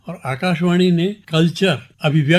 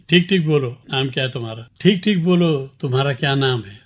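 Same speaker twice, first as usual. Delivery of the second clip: mildly sarcastic interrogation. Shown as a demonstration. Questioner ordering someone to state their name, mildly sarcastic demand. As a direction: push out the command, then ease off on the question. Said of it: "ये बड़ा व्यंग्यात्मक शब्द है".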